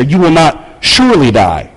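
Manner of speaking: weight on "surely die"; added emphasis. Retold or imitated. Preacher quoting the serpent contradicting God, emphatic. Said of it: "he adds the emphasis there".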